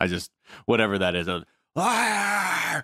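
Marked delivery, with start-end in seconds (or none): 1.7-2.8 very high, drawn-out, full-voice public scream. Quoting a screamed catchphrase: imitating a full-voice scream. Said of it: "screamed full voice in public".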